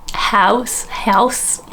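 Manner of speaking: attempted Belfast vowel, questioning; Belfast accent. Vlogger practising for Ireland trip, tentative Belfast. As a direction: try a Northern Irish twang. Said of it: "the Belfast accent".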